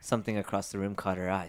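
quick spooky whisper. Acted. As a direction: hush it out fast. Spooky story reading.

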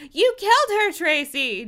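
high, loud accusation; furious declaration. Acted. Dina with narrowed eyes accuses Tracy, furious declaration. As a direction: hurl the accusation, melodramatically. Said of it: "Dina declared".

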